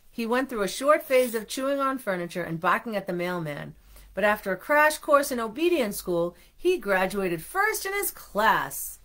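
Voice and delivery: expressive read-aloud, stretched at the end; storybook reading. A narrator's reading. Parent telling children of the dog's schooling, expressive storybook reading.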